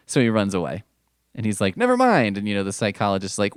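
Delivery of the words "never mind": high, louder squeak of a hasty retreat; squeaky mock exit. Spider-Man bailing on the psychologist, high squeaky blurt.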